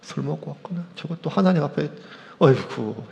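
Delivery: a lightly voiced disapproving old priest; muttering priest Eli. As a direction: mutter it under your breath as Eli watching. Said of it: "지켜보던 엘리 제사장이".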